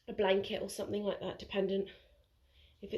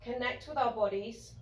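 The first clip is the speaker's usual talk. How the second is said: soft, unhurried yoga teacher voice with pauses; guided relaxation; 2 semitones higher, 4 dB quieter than usual. Real, not acted. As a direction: gently guide them into noticing body and breath. Guides relaxation lying on mat.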